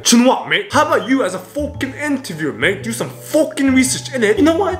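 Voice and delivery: mock indignant rant. Reactor scolds an interviewer who got Felix's origin wrong, mock indignant. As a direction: tear into the interviewer in mock outrage.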